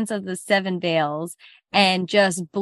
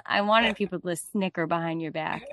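villainous mother. Acted. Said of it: "mother voiced".

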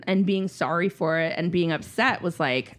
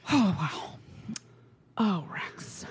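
softer, hushed let-down; quiet disappointment; 7 dB quieter, slower than usual. Retold or imitated. Parents quietly reacting to son's confession, hushed. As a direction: say it under your breath, disappointed. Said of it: "really actually kinda quiet about it".

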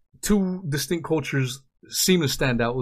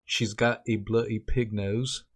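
put-on British accent; 4 dB quieter than usual. Shown as a demonstration. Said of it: "in a British voice, you say".

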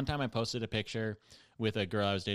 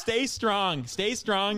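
higher and louder inner pep talk; 10 semitones higher, 6 dB louder, much slower than usual. Retold or imitated. Telling the host his inner voice, high and louder, urging himself on. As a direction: psych yourself up under your breath-turned-loud. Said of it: "all I can think is".

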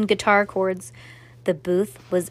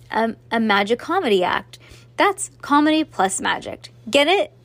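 plain reading voice

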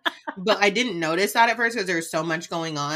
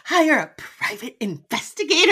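higher, put-on whiny Whitney voice; mimicking Whitney; 8 semitones higher than usual. Cohost mocking Whitney's line, higher whiny voice. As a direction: ham up her dumb question.

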